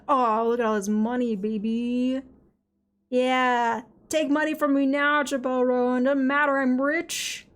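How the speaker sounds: loud, boastful money brag; crowing like a rich show-off; gloating. Pretend. Gloating over game money.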